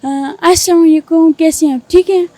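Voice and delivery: lightly voiced girl asking for money; a hint of a sweet young woman pleading; girl's voice. Prankster calling his cousin as a girl named Saba. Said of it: "لڑکی کی آواز میں مجھے سنائیں".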